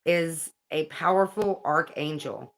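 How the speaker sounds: measured, deliberate read-aloud; guidebook reading. Acted. Reading about cherubim angels to viewers, measured read-aloud. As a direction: read it out clearly, phrase by phrase.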